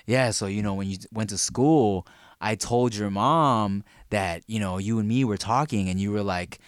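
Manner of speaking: 1 imitating dad. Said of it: "my dad's like".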